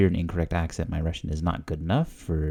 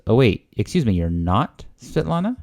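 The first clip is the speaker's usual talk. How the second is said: puzzled double-take, higher pitch; confused question; 4 semitones higher than usual. Acted. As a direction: act out a confused check, rising at the end. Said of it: "if you hear the intonation".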